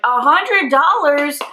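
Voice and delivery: high, slow, incredulous cry of disbelief; retelling the moment she saw a hundred-dollar fee; shocked disbelief. Retold or imitated. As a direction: stretch out the price in shock.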